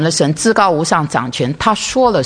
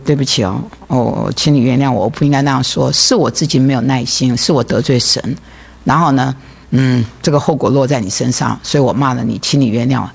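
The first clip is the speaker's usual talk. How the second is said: sincere apology; 3 semitones lower than usual. Retold or imitated. Phone apology to coworker.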